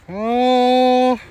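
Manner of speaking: high, loud exclaimed oh; a big surprised oh. Real, not acted. Reveal of the viewpoint.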